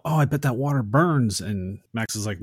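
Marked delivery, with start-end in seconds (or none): 0.0-1.4 louder and higher, a taunting mock yell; hammed-up gloating shout; retold yell. Frog Brothers taunting Max over the water, mock yell. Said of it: "And they yell".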